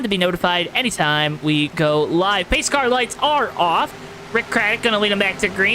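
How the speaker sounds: steady, rolling race-caster delivery; announcer voice. Real, not acted. Race streamer calling laps for viewers, announcer voice. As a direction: keep the broadcast energy going over the restart. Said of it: "my announcer voice like this".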